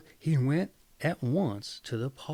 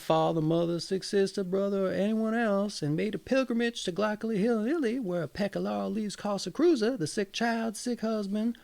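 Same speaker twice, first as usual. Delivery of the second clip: higher and higher as the list runs on; eager peasant; 4 semitones higher than usual. Acted. Peasant telling his gossip about the sermon, eager and rising. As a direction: pour out the sermon, winding up.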